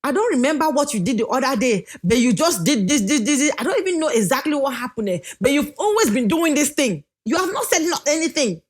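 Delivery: acted scolding, climbing in pitch; mock accusing rant, rising at the end; generalizing accusation. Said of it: "But don't come say".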